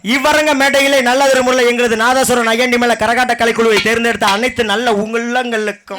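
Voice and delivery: formal stage compere; stage announcer voice. Acted. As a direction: thank the crowd like a folk troupe host. Karakattam stage thanks speech.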